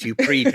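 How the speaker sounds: predate said high and pulled out; stress on predate. Pretend.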